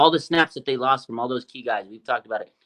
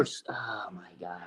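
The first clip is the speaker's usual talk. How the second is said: whisper; 5 semitones lower, 17 dB quieter, slower than usual. Real, not acted. Laughing, whispering aside.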